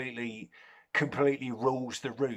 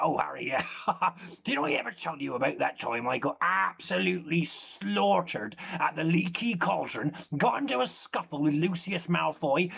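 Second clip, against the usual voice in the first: lively comic wizard character, chuckling now and then; a hint of a jovial wizard spinning tall tales; lightly voiced wizard storyteller; 4 semitones higher than usual.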